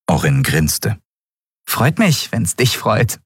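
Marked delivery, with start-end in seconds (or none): 1.7-3.2 put-on high street-kid girl voice; lively young girl, matter-of-fact. A narrator's reading.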